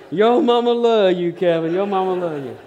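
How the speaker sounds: high holler easing off at the end; imitated yell. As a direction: mimic the woman's loud call to the graduate. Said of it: "this woman yells out".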